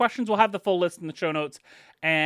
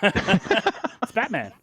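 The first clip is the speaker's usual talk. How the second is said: slow amused laugh through it; 4 semitones higher, much slower than usual. Real, not acted. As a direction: chuckle the name slowly. Laughing at the Batman clip.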